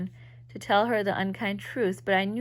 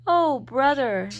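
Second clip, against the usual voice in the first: laughing; 6 semitones higher, 9 dB louder, slower than usual. Acted. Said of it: "Suddenly she laughed".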